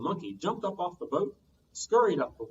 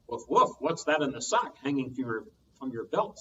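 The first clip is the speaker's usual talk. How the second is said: dog's voice. Acted. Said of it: "said the dog".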